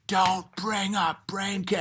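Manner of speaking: soft, slow, urgent aside; hushed warning. Retold or imitated. Brother quietly warning the room, slow hushed urgency. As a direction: hiss the warning under your breath.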